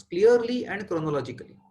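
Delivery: "clearly" and "chronologically" each given firm emphasis; stress on both words. Real, not acted. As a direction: hit "clearly" hard, then articulate "chronologically". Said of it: "I am emphasizing on both the words".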